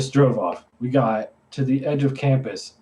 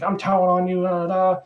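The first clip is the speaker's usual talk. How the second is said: singsong imitation of a tattletale, pitched up; mock a kid threatening to tell; mock tattling; 5 semitones higher than usual. Passer-by threatens to report two climbers, mock tattling.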